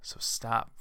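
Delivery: breathy whisper, firm; hushed "so stop". Real, not acted. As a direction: drop to a whisper to end it. Whispered command after rant.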